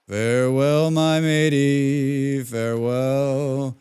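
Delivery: slow, loud, drawn-out pirate goodbye; mock pirate farewell. To the friend in the sinking cage, a loud slow mock pirate farewell. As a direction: ham up a grand sea-dog send-off.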